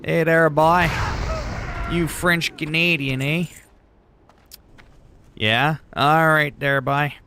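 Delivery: playing a Southern guild member calling him boy; Southern drawl. Mock Southern accent taunting a French Canadian. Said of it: "some American guilds there from Alabama".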